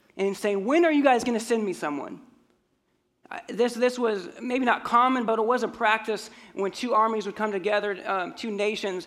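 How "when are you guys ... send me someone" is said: mock, scornful, jeering taunt. Retelling how the giant taunts the Israelites: imitating Goliath yelling and mocking. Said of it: "He's yelling at them, making fun of them, mocking them".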